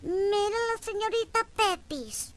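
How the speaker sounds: put-on high, loud, slow old-man cackle of a line; old man catcalling. Old man in a wheelchair calling out to passing woman, high and loud. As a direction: play a cheeky pensioner calling out. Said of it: "Siempre me dicen algo".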